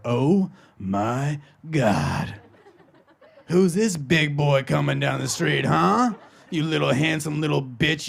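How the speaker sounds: lightly voiced rapper growling at a dog; slow, hammed-up rapper-style dog fussing; a rapper. Girlfriend locks eyes with a dog, hammed-up rapper voice. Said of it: "just turn into a rapper".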